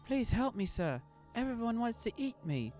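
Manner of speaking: high, loud desperate plea; terrified little boy begging; frightened boy pleading. A narrator's reading. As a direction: beg for help like a scared child.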